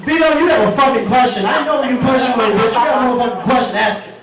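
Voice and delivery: playful scolding at speed; mock-indignant push. Real, not acted. Host pressing heckler.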